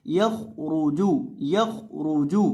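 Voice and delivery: यख रूजू with thick, full kha and ra; heavy letters. Shown as a demonstration. Teacher repeating for learners, thick kha and ra in यख रूजू. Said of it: "दोनों को मोटा करेंगे".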